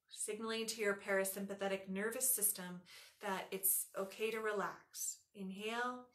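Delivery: soft, even meditation voice; hushed, calm breathing cues; guided breathing meditation. Real, not acted. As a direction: guide the breath softly, with long pauses.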